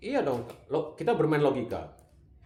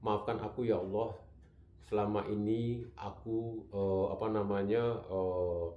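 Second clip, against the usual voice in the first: humble prayer; 4 semitones lower than usual. Shown as a demonstration. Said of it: "dengan cara seperti itu kalimatnya".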